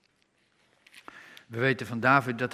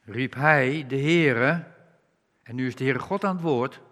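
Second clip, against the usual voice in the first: ordinary talk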